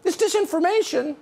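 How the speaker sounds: mock her sweet scolding tone; sing-songy mock. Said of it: "doing it in a sing-songy way".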